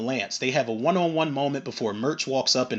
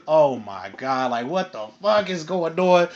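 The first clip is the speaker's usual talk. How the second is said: slow, drawn-out dismay; hammed-up appalled reaction; appalled disbelief; slower than usual. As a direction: play someone dumbstruck by an unwelcome arrival. Acted shock at an unwelcome greeting.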